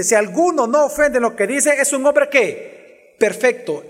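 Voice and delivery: a touch of sarcasm in the quote; sarcastic. Acted. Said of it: "entonces él con sarcasmo dice".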